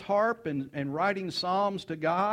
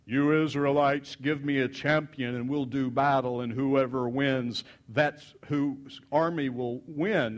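lightly voiced giant, slow and lower; giant's challenge; 4 semitones lower than usual. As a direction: issue a measured, weighty challenge to an army. Giant champion challenging Israelite army.

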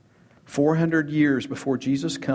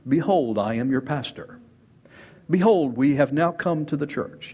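mock cult leader. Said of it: "If I were to speak like this".

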